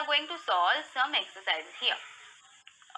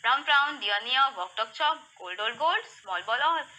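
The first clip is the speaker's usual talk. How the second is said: rapid-fire rhyming drill; fastest read-aloud. Shown as a demonstration. Teacher pushing kids through rhymes, very quickly. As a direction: rattle the rhyming sets off with hardly a pause. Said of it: "More faster".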